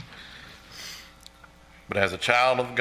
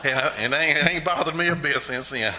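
laughing; 6 semitones higher, 5 dB louder than usual. Real, not acted. Laughing on after the quote.

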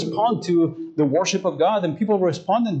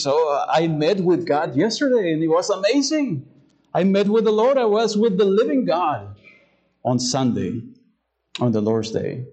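mock excited testimony; 2 semitones higher than usual. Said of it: "How many times will we talk like that".

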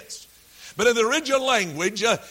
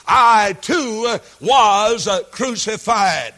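emphatic loud; 6 dB louder than usual. Acted. Preacher's climax, voicing Paul.

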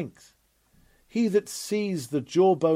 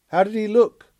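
higher, louder voiced Israelite asking; eager brother's question; 7 semitones higher, 7 dB louder than usual. Brother asks the Israelite about Samson, eager and louder.

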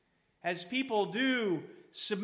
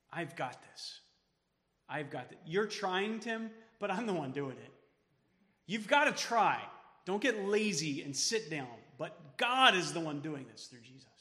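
reassuring; 2 semitones lower than usual. Pretend. Pastor voices Jesus comforting disciples.

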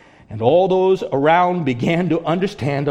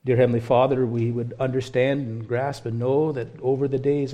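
closing prayer; 3 semitones lower than usual. Real, not acted.

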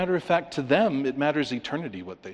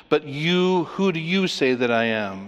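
"you" set apart and raised; emphatic YOU; 2 semitones higher than usual. Shown as a demonstration. Preacher shows verse fifteen's emphasis, stressing "you". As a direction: stress the first "you", then ask the question. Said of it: "There's a chain of emphatic statements".

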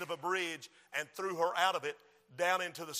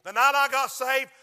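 loud, raised sermon voice; forceful preaching; 4 semitones higher, 8 dB louder than usual. Real, not acted. Preacher warning of the last chance, forceful preaching. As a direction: preach it out to the congregation.

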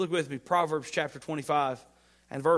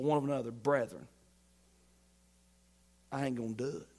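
refusing slander, building; 6 dB louder than usual. Retold or imitated. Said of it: "You're like".

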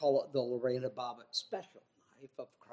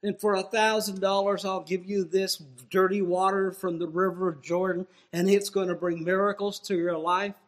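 mock TV preacher; 2 semitones higher, 6 dB louder than usual. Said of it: "people get on T V and preach and promise".

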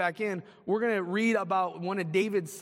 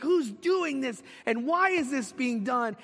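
furious; 4 semitones higher than usual. Retold or imitated. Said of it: "And he's furious".

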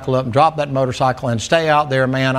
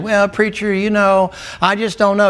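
higher, mildly put-on hesitant objection; mock doubtful churchgoer; 5 semitones higher than usual. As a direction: lightly mimic a wishy-washy church member. Mimics a wavering church member objecting.

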